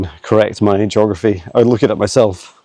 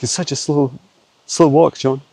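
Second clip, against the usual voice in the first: Patch; 5 semitones higher than usual. Pretend. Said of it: "He's like".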